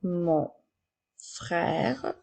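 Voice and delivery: each word spaced out and clearly set apart; slow dictation. Shown as a demonstration. Teacher dictating to a child, slow and distinct. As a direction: dictate slowly to a pupil writing. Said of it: "Je continue avec mon frère".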